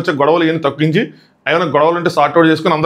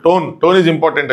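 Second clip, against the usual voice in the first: slow mock quote; much slower than usual. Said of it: "Nagarjuna గారు కూడా ఇదే చెప్పారు".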